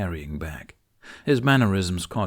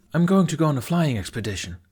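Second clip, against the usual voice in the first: higher, eager announcement; excited exclaim; 6 semitones higher, 3 dB louder, faster than usual. A narrator's reading. Fishlegs talking over Tufnut's moaning, nervously excited. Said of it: "Fishlegs exclaimed".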